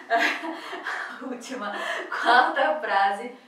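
fala lenta entre risos, constrangida; rindo sem graça. Real, not acted. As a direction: rir de vergonha antes do palavrão. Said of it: "j'aime pas dire ça". (risada constrangida antes da frase)

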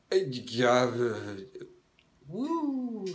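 a low, ambiguous come-on; sexually ambiguous voice. Retold or imitated. Teller answering the naked woman in a low ambiguous voice. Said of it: "in the most sexually ambiguous voice".

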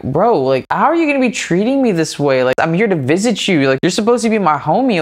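hurt and exasperated, pushing the pitch up; frustrated. Retold or imitated. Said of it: "I was getting frustrated".

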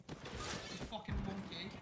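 slow, hammed-up British taunt; drawn-out British jeer; slow put-on British accent; mock British insult. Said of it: "you are a bit British".

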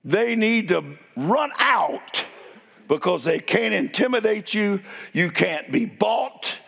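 slow, swelling preacher's cadence; building sermon. Acted. Pastor urging the church on from Acts four, preaching with rising force. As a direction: drive each phrase home to the congregation.

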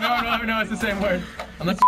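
high, laughing through the line. Real, not acted. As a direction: laugh as you say it. Laughing at bleep joke.

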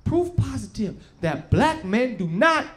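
measured, mock-solemn announcement; mock survey reading. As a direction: read it out like official findings, holding back the punchline.

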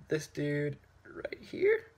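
slow secretive whisper. Real, not acted. Reviewer teasing a cameo to viewers, slow whisper. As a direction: hush it like a secret.

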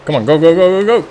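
urgent, rising yell at the screen; frantic shouting. Real, not acted. Urging car through race finish.

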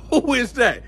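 high-pitched annoyed call down the tier; imitated calling out. Other inmates waking up to the noise, high mock calling. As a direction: mimic woken neighbours demanding answers.

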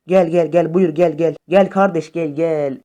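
loud goading "come on"; cocky loud taunt; taunting call. Real, not acted.

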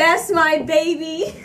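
slow drawn-out proud cheer; proud parent. Retold or imitated. Imitating a proud parent at a basketball game, slow and drawn out. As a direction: mimic a beaming parent in the stands. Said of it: "How would you just say it like that?".

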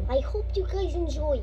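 I hope you guys enjoy in a put-on Russian accent. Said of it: "in my Russian accent".

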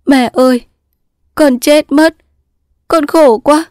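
high, anguished wail to mother; tearful, high-pitched lament; sobbing daughter. Acted. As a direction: cry out in despair, pitched well up. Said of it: "nức nở khóc".

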